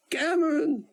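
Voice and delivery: put-on thick Israeli accent. Old Israeli scientist greeting his friend Cameron, exultant thick Israeli accent. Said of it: "the Israeli exulted in his thick accent".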